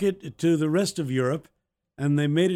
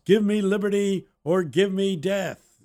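put-on child reciting patriotic quote; 5 semitones higher, 3 dB louder than usual. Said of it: "give a great quote".

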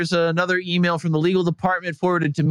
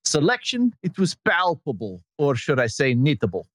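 lightly put-on Estonian accent, laughing through it; bad Estonian accent. Host reading an Estonian fan's email in a mock Estonian accent. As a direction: read the fan letter in a half-hearted Estonian accent. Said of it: "with my worst Estonian accent".

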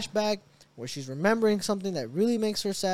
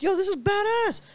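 high, thrilled exclamation; excited awe; 13 semitones higher, 5 dB louder than usual. Retold or imitated. Fan watching the fight, high excited gush. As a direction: gush over how cool it is. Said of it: "And I'm like".

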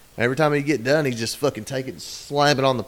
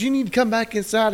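much higher squeaky order; mock bossy wife; 11 semitones higher than usual. Wife orders husband inside.

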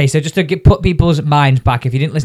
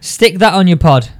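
louder, slower, gloating tone on "that"; smug read-out; 4 semitones higher, 5 dB louder, slower than usual. Retold or imitated. Host reads a friend's gloating text aloud, smug. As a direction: read "Stick that on your pod" slowly and a bit louder, hitting "that". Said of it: "reading the message".

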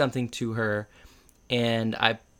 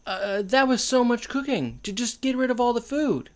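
mock outrage; 10 semitones higher than usual. Real, not acted. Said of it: "mock dismay over wasted food".

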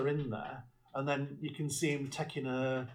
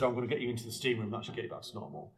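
quick retold line; 4 semitones lower, much faster than usual. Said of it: "So she said".

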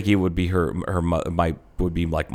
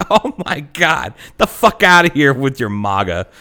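exasperated daughter; 4 semitones higher, 4 dB louder than usual. Retold or imitated. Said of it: "she's like".

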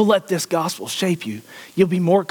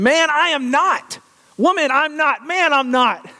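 frantic denial; 9 semitones higher than usual. Acted. Peter's denials voiced.

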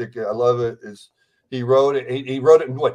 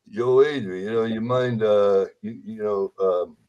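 Rocky voice; 3 semitones lower than usual. Retold or imitated. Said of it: "you know the lines better than I do".

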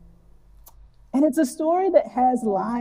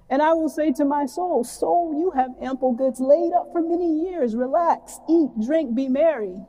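a lightly voiced, higher smug rich man; the rich fool pleased with his own plans, pitched higher; 4 semitones higher than usual.

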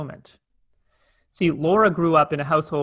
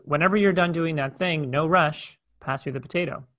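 gentle no rush. Retold or imitated. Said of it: "what I meant was".

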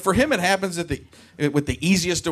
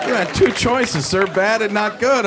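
mock scolding; 5 semitones higher, 3 dB louder than usual.

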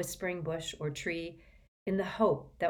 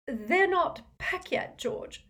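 worried mother; 13 semitones higher, slower than usual. Acted.

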